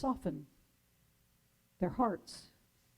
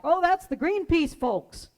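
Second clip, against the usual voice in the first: called back; 4 semitones higher, 5 dB louder than usual. Retold or imitated. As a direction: answer across the block, fading. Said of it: "Another voice calls back".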